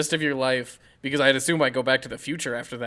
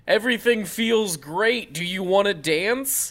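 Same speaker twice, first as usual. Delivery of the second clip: put-on dreamy high girl voice; 4 semitones higher, slower than usual. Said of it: "she was like".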